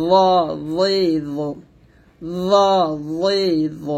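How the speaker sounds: thick rounded ল লি ল; heavy buzz, tongue at upper teeth on ল লি ল. Shown as a demonstration. Teacher drilling the thick letter, heavy zo. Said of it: "তবে জটা মোটো হবে".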